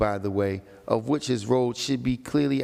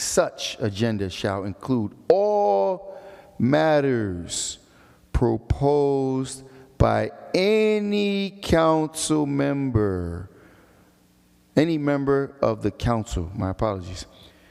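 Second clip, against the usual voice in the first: slow, deliberate reading pace; 2 semitones higher than usual. Reading a council rule aloud in case some don't understand: reading slowly. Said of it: "I'm gonna read it slow".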